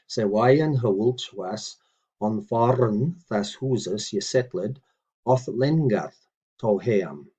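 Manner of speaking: slow, deliberate word-by-word recitation; measured teaching read; careful Old English reading. Shown as a demonstration. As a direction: read each word out for the learner. Reads model sentence again.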